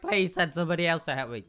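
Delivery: quick, loud mock plea; pleading plant. Pea Shooter begging for backup, mock pleading. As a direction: lightly voice an overwhelmed plant begging for help. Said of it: "Pea Shooter's like".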